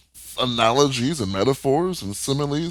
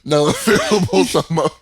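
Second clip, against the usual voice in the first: sultry perfume ad; 3 dB louder than usual. Pretend. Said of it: "Now available at most pharmacies".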